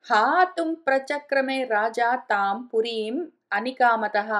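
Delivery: slow, measured chant of the Sanskrit verse; slow devotional recitation. Acted. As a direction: intone each line slowly like scripture.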